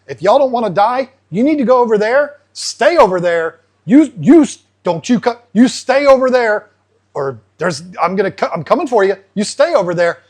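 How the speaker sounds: a mock tough-guy threat, lightly voiced; bully the other fish away, half-playful; threatening. Breeding pair warning the other fish off, mock threatening. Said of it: "They said".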